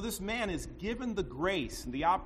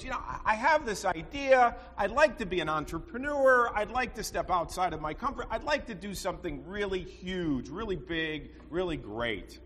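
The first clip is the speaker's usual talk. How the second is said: higher, eager chicken, lightly voiced; a chicken pitching a big dream, higher; 4 semitones higher, 3 dB louder than usual. Chicken tells the pig his big idea, eager and higher.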